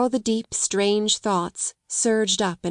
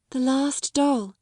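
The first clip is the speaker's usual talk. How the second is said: slow, higher mournful words; 5 semitones higher, slower than usual. A narrator's reading. Grieving girl speaks of her father's last gift, mournfully. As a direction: linger sadly over the doll. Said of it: "her little mournful voice had an odd sound".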